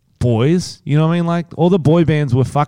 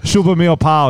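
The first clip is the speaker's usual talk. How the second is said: mock São Paulo accent; 5 semitones higher than usual. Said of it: "started trying to speak like him".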